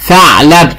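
ثعلب with a clear th at the start; tongue out for th. Shown as a demonstration. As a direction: put the tongue between the teeth to start ثعلب. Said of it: "لازم نخرج لساننا في حرف الثاء".

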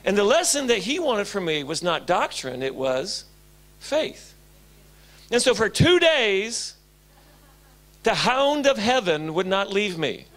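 normal talking voice

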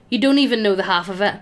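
brisk, offhand reply; normal voice, quick. Acted. A skeleton answering the concubine quickly and casually. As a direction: rattle it off casually. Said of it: "in a normal voice answers".

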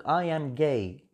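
"gay" said with an ay vowel in place of guy; wrong pronunciation. Shown as a demonstration. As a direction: mispronounce guy as "gay", as a demonstration. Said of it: "نطقك غلط". (نطق خاطئ: gay بدل guy)

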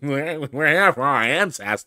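a slow, hammed-up Australian accent, lightly done; mock Australian accent. Vlogger mocking an Australian protester, slow Australian accent. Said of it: "It's just such a crazy accent".

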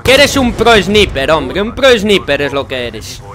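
slow, loud, scornful jeer; exasperated mockery of an opponent. Real, not acted. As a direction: taunt the rival loudly, dragging it out. Mocks the player who killed him.

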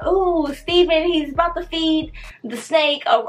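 lightly voiced eager onlookers; imitated excited kids. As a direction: mimic children sharing big news. Voices the children explaining the commotion.

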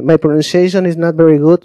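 learner's English with a Spanish accent. Shown as a demonstration. Speaker admitting poor English to someone, Spanish accent. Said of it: "mi pronunciación no es buena".

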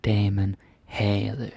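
"Damen havde" slowly, no v in "havde"; silent V. Shown as a demonstration. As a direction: draw out "havde" with the V left silent. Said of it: "The V is not pronounced".

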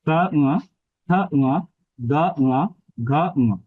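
কা, খা, গা, ঘা from the throat, each followed by a nasal ঙ in "উয়া"; pronunciation drill pairing each throat consonant with a nasalised "উয়া", tongue staying put; throat-and-nose drill. Shown as a demonstration. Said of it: "আমি উয়াটা যখন উচ্চারণ করছি তখন নাসিকাতেও আসছে". (কা, খা, গা, ঘা কণ্ঠে, "উয়া" নাসিকাতে উচ্চারণ)

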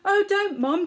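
loud, high desperate plea; pleading cry. A narrator's reading. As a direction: beg her to stop. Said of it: "cried Poppet".

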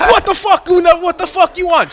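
high mock shout at the jockey; mock yell. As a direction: snap it back at the jockey, hammed-up. Yelling at jockey in retold story.

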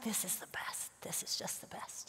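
hushed, breath-only savoring; very soft whispered aside; awed whisper. Retold or imitated. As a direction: whisper it to yourself. Mother's awed inner reaction, retold.

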